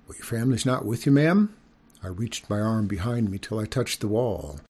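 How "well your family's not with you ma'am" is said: put-on polite child. Nervous boy asks skunk.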